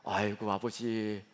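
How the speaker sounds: slow, soft sighing "아이고, 아버지". Retold or imitated. Grown children sighing at their aging father, soft slow sigh. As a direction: sigh it out slowly and softly. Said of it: "똑같이 한숨을 쉬더라고요".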